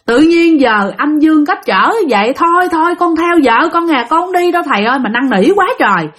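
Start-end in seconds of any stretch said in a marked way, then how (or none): 0.0-5.0 crying, begging. Retold or imitated. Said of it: "khóc nói".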